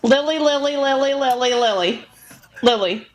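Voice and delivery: loud, rapid repeats of LILY; five times fast. Shown as a demonstration. Co-host repeats LILY on the host's request, rapidly. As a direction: rattle off LILY like a tongue-twister. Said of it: "Lily five times fast".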